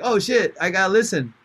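loud, high mock excitement at the radio voice; hooked listener. Podcaster voicing a listener grabbed by the show. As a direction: play a listener suddenly hooked. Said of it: "that makes you be like".

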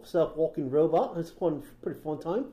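mock-Kiwi storytelling, lifting at the end; New Zealand accent. Host riffing on a robot owner, New Zealand accent. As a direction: spin the tale in a Kiwi accent. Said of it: "doing more of a New Zealand".

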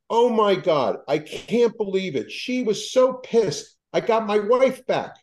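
high, elated rush of disbelief; husband phoning with news, overjoyed. Retold or imitated. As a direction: ring up bursting with joy.

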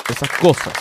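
ordinary delivery

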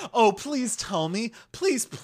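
high, loud whimpering plea; mock begging. Teasing cohost's imagined pleading, hammed-up whimper. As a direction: beg desperately, hamming it up. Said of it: "and then you going".

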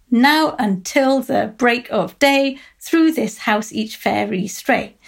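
slow, each line's first syllable hit, "Now until the break of day" stressed NOW, BREAK, DAY; trochaic stress. Shown as a demonstration. Lecturer showing students the trochaic fairy rhythm, slow and stressed. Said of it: "the stress is on the first syllable".

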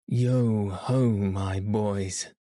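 hearty call. Acted. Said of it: "said Fezziwig".

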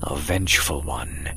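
low, soft spooky voice; low haunting voice. Acted. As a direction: hush it like a ghost story. Spooking friend with ghost story.

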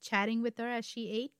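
slowing, ominous storyteller; story narration. A narrator's reading. Host describing the poisoning, story narration. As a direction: draw out the end for suspense.

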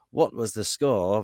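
terrible mock Geordie accent; slow, hammy Newcastle Geordie voice. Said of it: "This is my terrible Geordie accent".

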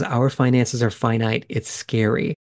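exhausted. Retold or imitated. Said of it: "she just kind of sounds exhausted".

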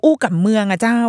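a touch of Northern Thai dialect; สำเนียงคำเมือง. Shown as a demonstration. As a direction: lightly imitate Northern Thai kam mueang speech. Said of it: "คุณน้าก็อู้กับเมือง". (เลียนสำเนียงเหนือเบาๆ)

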